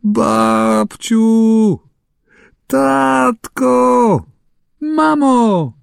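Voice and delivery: high, loud desperate calling; child locked in the dark, crying out in panic; frightened cry for help. A narrator's reading. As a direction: call for mum and grandma, scared and trapped. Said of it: "Już mu głosu zabrakło".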